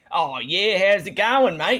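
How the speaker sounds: stock put-on Australian accent in an American-sounding attempt. Showing how Americans try to do Aussie, in an American attempt at Aussie accent. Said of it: "whenever Americans try to do Aussie".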